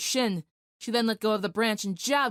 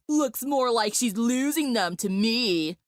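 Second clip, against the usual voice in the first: snickering; slower than usual. Acted. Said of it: "The lanky boy next to her snickered".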